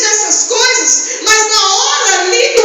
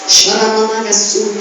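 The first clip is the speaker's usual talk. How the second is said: speaking in tongues; 8 semitones lower than usual. Real, not acted.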